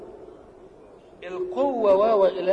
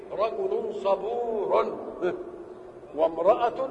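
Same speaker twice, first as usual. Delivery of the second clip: slow, drawn-out teaching example; slow demo phrase; much slower than usual. Shown as a demonstration. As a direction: spell out the example slowly. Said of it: "تقول إيه؟". (نطق بطيء ممدود للمثال)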